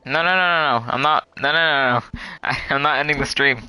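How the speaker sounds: loud, hurried run of no; laughing loud protest to chat; loud denial. Real, not acted. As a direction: cut off the misunderstanding fast. Viewers think stream is ending.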